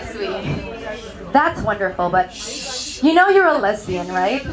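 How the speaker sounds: low, softened voice of a worried friend; acted careful sympathy; gentle concern. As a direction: break it to them gently, as a mock-concerned friend. Friends' concern after it sinks in.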